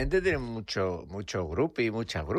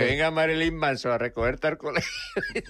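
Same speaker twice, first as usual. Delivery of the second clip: higher-pitched, talking through laughter; laughing; 5 semitones higher than usual. Real, not acted. Co-host joking about a singer on the school run, laughing. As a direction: crack up while making the joke.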